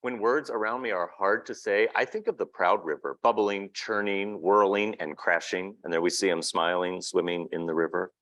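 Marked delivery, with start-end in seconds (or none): 0.0-5.8 picture book reading. A narrator's reading. Reading a picture book aloud to an audience, storybook narration. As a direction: read the child's words gently to the room.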